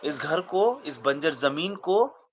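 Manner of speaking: halting dramatic monologue, heavy pauses between outbursts; lightly voiced stage character listing a life's sacrifices; aggrieved Uncle Vanya. Character telling the injustice they have experienced, aggrieved.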